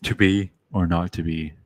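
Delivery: lightly voiced, matter-of-fact Arnold; blunt Arnold. Arnold's Hamlet, lightly voiced, blunt and decisive. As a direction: toss it off flat and decisive, a hint of Arnold. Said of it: "Arnold just goes".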